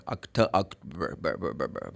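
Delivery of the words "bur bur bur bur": quiet, low, repeated "bur" with a strong r; American R. Shown as a demonstration. Teacher isolates the American ending, r-coloured bur. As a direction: murmur "bur" with a curled r. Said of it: "this is American".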